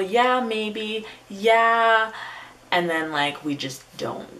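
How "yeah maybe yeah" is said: high-pitched placating agreement; noncommittal yes. Retold or imitated. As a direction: imitate yourself dodging a refusal, pitched up. Voices her noncommittal reply to suitors.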